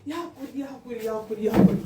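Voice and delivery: soft, pleading apology to husband; begging forgiveness. Acted. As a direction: beg him quietly, almost under your breath. Wife begs angry husband for forgiveness.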